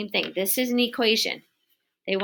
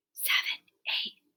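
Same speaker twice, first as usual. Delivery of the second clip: whispered, quieter. Demonstrating the counting trick to the viewer, whispered. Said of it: "say these numbers and whisper".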